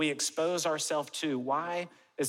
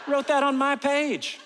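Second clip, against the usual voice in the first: much higher and louder, laughing; 12 semitones higher, 8 dB louder than usual. Real, not acted. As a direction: laugh it out in disbelief. Laughing, amused by hater comment.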